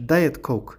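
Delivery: slow "Diet Coke" with "Diet" in full; sounded t. Shown as a demonstration. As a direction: pronounce the t that ends "Diet". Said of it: "ቲ ኣያ ድመፃን ዘሎ".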